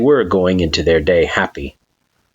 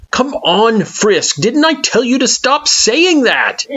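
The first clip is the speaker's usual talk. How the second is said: exasperated groan. A narrator's reading. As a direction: groan it, half laughing. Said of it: "with a groan".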